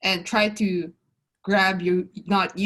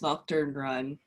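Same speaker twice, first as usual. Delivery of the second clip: choked voice; 6 semitones lower, 7 dB quieter, slower than usual. Acted. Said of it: "like, a choked voice".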